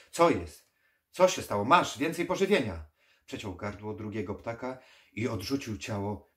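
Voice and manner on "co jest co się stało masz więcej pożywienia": loud, urgent, rising cries; high-pitched, forceful urging; alarmed shouting. Acted. Alarmed necromancer shouts at weakened voice.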